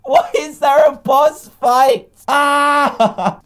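high, loud disbelief; stunned outcry. Real, not acted. Gamer meeting a surprise boss fight, loud high disbelief.

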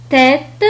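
"تيت" with a hard t at both ends; ordinary T. Shown as a demonstration. Teacher showing the normal case, hard t in "تيت". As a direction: say "تيت", releasing the final t. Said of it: "تنطق التي بطريقة عادية".

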